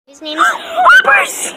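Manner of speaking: cracking up into a shout on the name; sudden voice crack; voice break. Real, not acted. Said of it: "Don't question the voice break".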